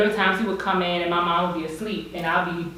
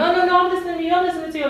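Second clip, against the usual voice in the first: mocking mom; 11 semitones higher, much faster than usual. Imitating mom's defensive reply.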